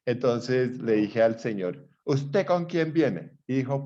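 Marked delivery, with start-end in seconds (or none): 2.1-3.4 slow, deliberate, slightly higher; pointed slow question. Retold or imitated. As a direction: ask slowly to corner him. Pregunta firme al señor. (al señor que grita, lento y firme)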